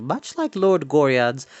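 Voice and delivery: plain reading voice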